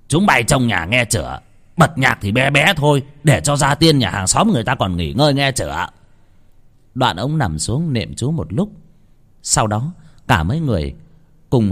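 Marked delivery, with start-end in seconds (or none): 0.1-5.9 stern warning. Acted. Master warns ghost servants.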